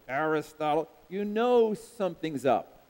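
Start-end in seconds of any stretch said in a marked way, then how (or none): 0.1-0.9 stern mom. Retold or imitated. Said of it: "She goes".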